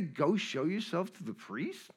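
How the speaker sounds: acted baffled question; puzzled echo. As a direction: repeat it back in mock disbelief. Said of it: "Did he just say".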